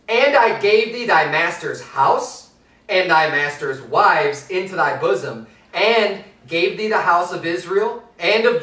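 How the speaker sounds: measured, solemn Bible reading; solemn King James reading; scripture reading. Acted.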